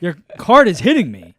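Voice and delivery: firm, civil complaint with some push; assertive. Retold or imitated. Man retelling how he handled it civilly, assertive. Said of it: "Assertive, but not aggressive".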